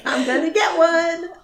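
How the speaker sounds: high, loud playful pet voice; cat's inner voice. Acted. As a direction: voice the pet's sneaky thought. Voicing the bird.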